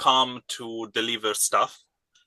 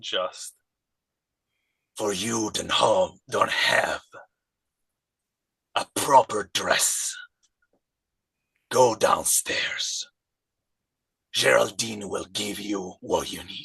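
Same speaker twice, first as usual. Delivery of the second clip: growly character voice, every word growled; 3 semitones lower than usual. Voicing Kuan as he steps forward to speak, in a growly voice. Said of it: "with this growly voice".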